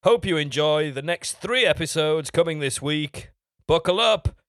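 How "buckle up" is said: dramatic build-up. Acted. Launching the story episode.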